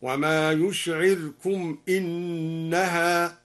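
slow chant, silent-vowel r in "يشعركم", kasra opening "إنها"; al-Duri reading. Shown as a demonstration. Teacher demonstrating the first variant, "يشعركم" slowly chanted with sukun on the r. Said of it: "بإسكان الراء واختلاسها وكسر أنها هكذا".

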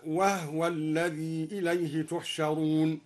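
"وهو" as wahwa with the ha silent, slow chant. Shown as a demonstration. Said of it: "وأسكن الهاء". ("وهو" بإسكان الهاء، ترتيل)

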